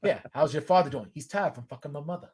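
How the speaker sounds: Boston movie-quote impression; Boston accent. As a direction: toss off a Boston movie line. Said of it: "almost went into a Departed chant".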